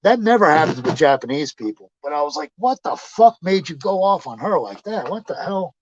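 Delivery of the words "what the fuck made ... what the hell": higher-pitched exasperated question; retold disbelief. Friend asking why he went off on her, incredulous. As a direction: ask it baffled and reproachful.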